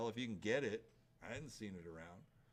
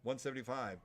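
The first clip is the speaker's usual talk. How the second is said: rapid rhythmic bid calling; auctioneer; faster than usual. Real, not acted. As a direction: rattle off the bids like an auctioneer.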